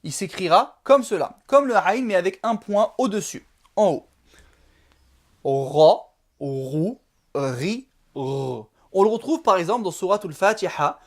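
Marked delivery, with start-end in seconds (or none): 5.4-8.7 rolled, heavy R said low in the throat; emphatic Arabic R; emphatic deep R. Shown as a demonstration. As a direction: give the R weight and darkness. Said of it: "comme un R français, mais emphatique, grave".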